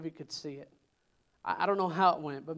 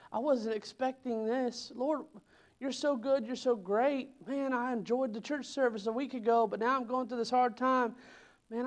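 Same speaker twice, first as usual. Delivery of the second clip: pleading lament climbing higher; troubled lament; 4 semitones higher than usual. Pretend. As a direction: cry out to God confused and pleading. Acted believer complaining in trial.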